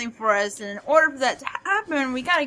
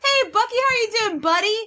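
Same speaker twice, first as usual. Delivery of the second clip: high, sing-song hello; higher-pitched, friendly coo; friendly greeting to a child; 7 semitones higher, faster than usual. Acted. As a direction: greet a little one sweetly. Greeting a small child character.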